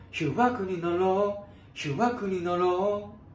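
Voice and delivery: ヒュワク with a breathy h before the yu; breathy H onset. Shown as a demonstration. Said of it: "Hの音というか、息っぽいもの".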